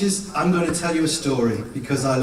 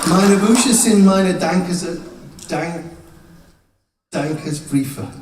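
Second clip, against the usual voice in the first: pretend German; 4 dB louder than usual. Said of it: "I'm going to pretend to speak German".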